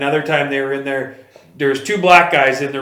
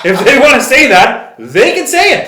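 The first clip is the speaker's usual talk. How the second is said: much higher, louder, laughing through the words; 10 semitones higher, 8 dB louder than usual. Real, not acted. Retelling Dana's answer to a friend, laughing. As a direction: laugh while speaking.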